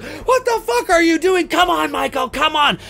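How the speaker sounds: high-pitched frantic protest; frantic acted outcry. Girl and Lori cry out before Michael, frantic.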